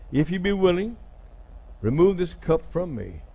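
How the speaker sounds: halting plea with long pauses; hesitant prayer. Retold or imitated. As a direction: pray it haltingly, phrase by phrase. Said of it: "He pauses".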